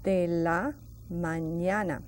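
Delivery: de la mañana, slow and separated, each syllable clear; teacher spelling it out slowly; slow pronunciation. Shown as a demonstration. Teacher modelling Spanish for the class, slow syllable by syllable. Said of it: "Let's pronounce that very slowly".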